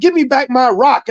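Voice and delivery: mock-angry and high; mad, retold. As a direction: act out a vendor demanding it back. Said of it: "the guy was so mad".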